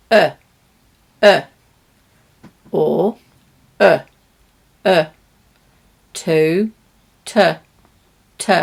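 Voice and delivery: reduced "y", "a", "t" with schwa; weak form sounds. Shown as a demonstration. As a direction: isolate the little weak sounds. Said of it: "those words would sound like".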